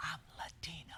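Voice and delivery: hushed, breathy whisper under the breath. Host telling the audience about the Latino vote, whispering.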